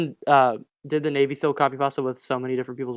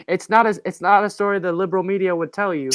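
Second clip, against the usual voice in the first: terrible, half-hearted impression of a president; lightly voiced, badly faked Trump; Donald Trump; 3 semitones higher than usual. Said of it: "that was a terrible Donald Trump impression".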